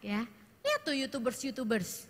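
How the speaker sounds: put-on dismissive teen pointing at YouTubers; lightly mocking teen voice; sulky teen. Shown as a demonstration. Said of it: "dengan intonasi begitu". (remaja meremehkan sekolah)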